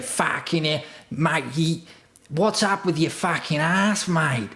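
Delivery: high, drawling send-up of a partner; Dieter impression. Partner demanding what is wrong in the toilet, high mocking impression. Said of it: "I'm gonna do an impression".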